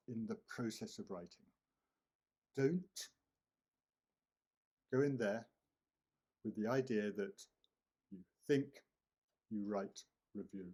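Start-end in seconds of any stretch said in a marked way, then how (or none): 2.6-8.7 emphatic warning. Real, not acted. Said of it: "teacher warning firmly".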